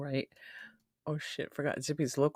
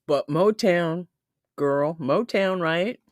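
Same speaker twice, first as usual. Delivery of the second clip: excited; 3 semitones higher, 8 dB louder, slower than usual. Real, not acted. Enthusing about Motown to chat.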